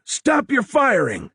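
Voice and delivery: slow, high, loud bellow; roared order. A narrator's reading. Charlie yelling at men who ignore him, slow roar. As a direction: drag out a furious command. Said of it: "Charlie roared".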